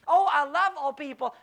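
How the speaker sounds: a breezy, careless mock boast; mimicking a glib churchgoer lightly; flippant claim. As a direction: toss off the line like people who don't mean it. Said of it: "loosely or flippantly or insincerely".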